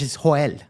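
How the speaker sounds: "Joel" said "ho-EL" with a Spanish H. Shown as a demonstration. Streamer explains the Spanish way to say "Joel". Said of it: "in Spanish".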